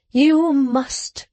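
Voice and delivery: brook no refusal; insistent gentleman. A narrator's reading. Insisting on the wine.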